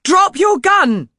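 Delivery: loud, high, slow command; shouting. A narrator's reading. Narrator aiming pistol at Crompton, loud slow command. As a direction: bark it down the pistol.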